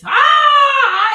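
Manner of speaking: high shrieking fake scream of fright; shrill hammed-up cry of terror; mock scream. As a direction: scream as if the name burned you. Terrified at saying the name.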